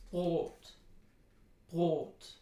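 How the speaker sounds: Brot with a long, pure o and no glide; pure German Brot. Shown as a demonstration. Teacher models Brot with a pure vowel. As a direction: hold a long, steady o in Brot. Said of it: "we don't want to diphthongize the vowel in Brot".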